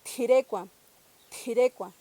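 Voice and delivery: tirecua with a puff of air after the t; aspirated t. Shown as a demonstration. Teacher saying a Purépecha word with aspirated t. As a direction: breathe out on the t of tirecua. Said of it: "lo tenemos en palabras como".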